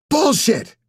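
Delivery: sharp hissed scream, held down; furious but not waking the kids; whisper scream. A narrator's reading. Ellie snaps at Nap, a high, loud whisper-scream. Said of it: "a surprise whisper scream".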